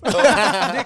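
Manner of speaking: laughing as he talks. Real, not acted. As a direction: talk through the giggles. Laughing mid-discussion. (natatawang nagsasalita)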